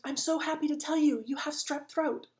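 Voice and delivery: mock-cheerful doctor delivering bad news; cheery doctor. Doctor cheerfully telling patient about strep. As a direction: chirp it like great news. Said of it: "she goes".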